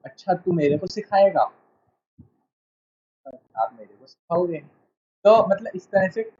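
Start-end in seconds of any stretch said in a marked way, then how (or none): 0.1-1.5 अच्छा, तू मेरे को सिखाएगा with a scornful falling सिखाएगा; mock rude challenge. Shown as a demonstration. Teacher shows rude tone to a student, mocking challenge. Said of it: "बात का सेंस बदल जाता है". 3.6-4.6 polite request. Shown as a demonstration. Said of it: "बात का sense बदल जाता है".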